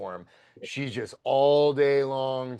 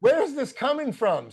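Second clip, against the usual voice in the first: much higher and louder, fast, freaking out; losing it; 12 semitones higher, 4 dB louder than usual. Retold or imitated. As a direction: replay the moment you lost it, voice shooting up. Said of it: "I start losing my shit".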